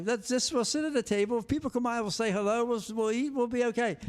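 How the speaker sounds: a hint of a singer urging another singer; the singer's advice. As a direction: talk a friend into dinner.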